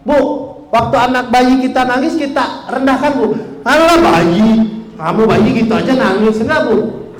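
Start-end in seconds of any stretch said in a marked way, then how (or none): 3.7-6.4 a scoffing, dismissive parent; mocking scorn. Parent scoffing at a crying baby, mildly mocking. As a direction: brush the baby's tears off with scorn.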